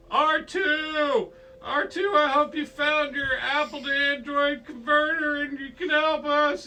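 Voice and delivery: high, loud mock-desperate call; calling out for help. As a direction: yell to the droid for rescue. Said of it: "he's, like, going".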